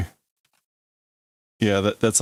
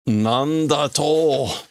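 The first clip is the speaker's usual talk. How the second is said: slow, drawn-out indignant outburst; indignant demand; 2 semitones higher, much slower than usual. Acted. Reader voicing a character's challenge, indignant. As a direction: draw it out in disbelief. Acting out a manga character's line.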